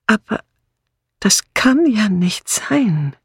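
murmured to herself, half whispered and slow. A narrator's reading. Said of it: "murmelte Miss Marple". (leise gemurmelt, fast geflüstert)

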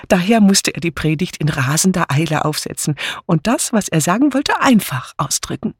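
high, eager gossiping chatter; eager vicar's wife chatters. Acted. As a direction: bubble on without a breath.

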